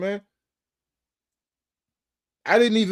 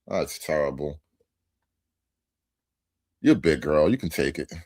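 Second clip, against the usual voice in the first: mock sympathy; 12 semitones lower than usual. Real, not acted. Mocking a guest whose heart was hurt, fake pity. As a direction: pretend to pity her, dripping with sarcasm.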